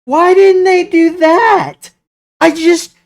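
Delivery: high, slow, outraged plea; exasperated. Real, not acted. Exasperated fan venting about show.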